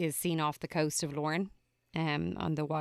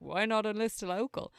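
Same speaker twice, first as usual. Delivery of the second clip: higher-pitched mock Australian accent; bad Australian accent; 5 semitones higher, 4 dB quieter than usual. Podcaster imitating Dickie's question, bad Australian accent. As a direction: quote him in a badly put-on Australian accent. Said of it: "that was a terrible Australian accent".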